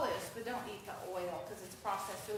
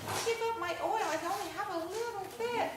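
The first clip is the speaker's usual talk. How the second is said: imitating friend; 9 semitones higher than usual. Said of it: "And she's like".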